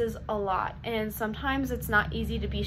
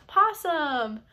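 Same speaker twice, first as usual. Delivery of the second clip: call out; 4 semitones higher, 4 dB louder than usual. Shown as a demonstration. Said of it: "the kids will respond with".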